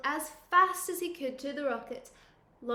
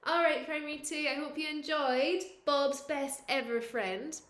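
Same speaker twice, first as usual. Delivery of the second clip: ordinary delivery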